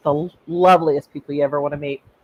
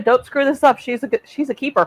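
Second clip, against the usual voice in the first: grandparents warning; 8 semitones higher than usual. Retold or imitated. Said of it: "They say to him".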